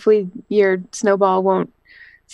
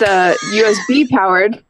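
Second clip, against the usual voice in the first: hiccuping mid-sentence; a hiccup breaks the words. Real, not acted. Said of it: "Sorry, I hiccup".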